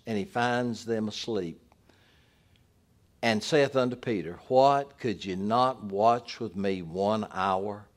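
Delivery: measured reading of the Gospel aloud; scripture reading. Acted. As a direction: read the passage with solemn weight. Pastor reads the Gospel passage.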